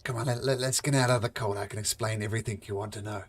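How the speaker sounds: grumbly gravelly half-orc voice. Acted. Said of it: "I'm gonna stop doing that grumbly, gravelly voice".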